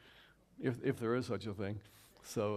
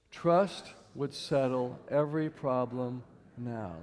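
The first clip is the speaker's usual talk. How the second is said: a slow, measured recitation led for the room; slow group recitation; slower than usual. Shown as a demonstration. Speaker leading the audience in reciting, slow and measured. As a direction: say it slowly together with them. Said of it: "Can we say that together?".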